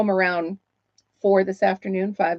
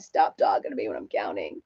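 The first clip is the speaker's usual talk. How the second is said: annoyed snap; 13 semitones lower, 5 dB quieter than usual. Retold or imitated. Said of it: "and I'm like".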